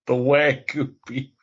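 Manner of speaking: incredulous, tickled repeat; amused echo. Real, not acted. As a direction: echo it back through a laugh. Laughing echo of co-host's claim.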